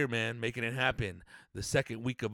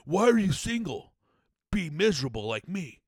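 miserable married nag; 3 semitones higher, 5 dB louder than usual. Retold or imitated. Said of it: "talking about".

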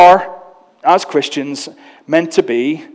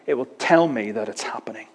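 "it will tell me that it's happening" in a soft whisper; whispered aside; 6 semitones lower, 8 dB quieter than usual. Real, not acted. Pastor confides to the church in a whisper. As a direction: lean in and whisper it.

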